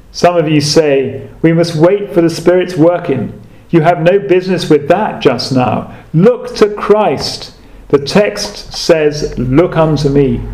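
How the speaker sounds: lightly voiced Essex preacher; homely Essex pulpit accent, mildly done; broad Essex accent. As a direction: reason with the congregation in an Essex accent. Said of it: "in his broad Essex accent".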